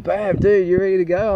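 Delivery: mock-eager pitch-up invite; excited mate. Mate calling him out of hibernation.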